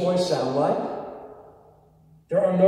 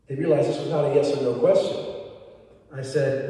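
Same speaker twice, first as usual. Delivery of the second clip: ordinary talk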